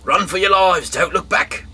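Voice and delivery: very high, loud cry to run; urgent shout. Acted. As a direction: yell the warning as they flee. Angel shouting escape warning.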